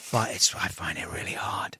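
soft whispered confession, barely voiced; whispered admission. Real, not acted. To the host about his teenage son, a whispered admission. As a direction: drop to a whisper and own up. Admits fatherhood is hard.

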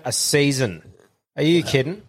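put-on disbelieving question in own accent; incredulous echo. Teller challenges the workmate's new accent, incredulous. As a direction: throw the answer back in disbelief. Mocks workmate's short time abroad.

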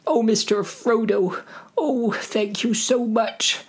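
high, gushing falsetto; grateful Sam. Acted. Sam thanks Frodo, high gushing voice. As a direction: gush your thanks in a squeaky voice.

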